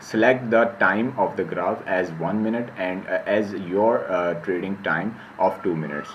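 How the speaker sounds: slow, careful read-out of an English heading; reading a slide aloud. Shown as a demonstration. Teacher slowly reading the slide heading to his students. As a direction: spell out each word slowly for students. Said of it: "मैं आपको पढ़ के बता देता हूँ".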